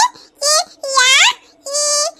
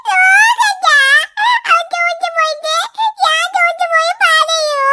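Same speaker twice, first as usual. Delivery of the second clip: acted crying. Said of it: "നീ കരയുന്നത്".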